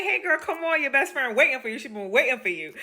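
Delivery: high-pitched acted welcome; animated retold hello; excited greeting. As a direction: call her in eagerly, pitch up. Director greets her at the door.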